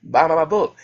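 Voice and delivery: low-pitched flirtatious pitch; mock flirting. Selling the book to a lady at Walmart, mock flirting. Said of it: "I was, like, flirting with people".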